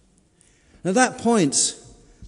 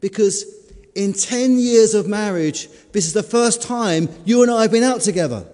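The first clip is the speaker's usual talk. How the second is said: laughing punchline; 4 semitones higher, 8 dB louder than usual. Acted. Wife delivers punchline.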